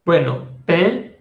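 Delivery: "pain" said with a nasal vowel, no n; teacher models "pain" with a nasal ending. Shown as a demonstration. Teacher to Spanish speakers, modeling nasal "pain". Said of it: "pain versus aîné".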